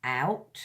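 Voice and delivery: "Out" as a separate first syllable of "outrageous"; teacher sounding out "Out" alone. Shown as a demonstration. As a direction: isolate "Out" carefully, then stop. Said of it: "It's got three syllables".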